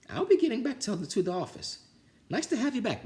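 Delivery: high flustered principal. Acted. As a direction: bluster your way out. Principal leaves.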